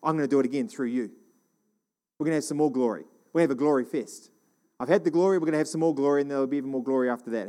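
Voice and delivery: lightly voiced Father, quick and easy; a hint of a reassuring father. God reassuring his Son, mildly fatherly. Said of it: "He said".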